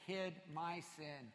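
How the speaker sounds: slow, soft, heavy psalm line; somber reading. Retold or imitated. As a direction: let the weight of guilt slow it. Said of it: "what the psalmist says here".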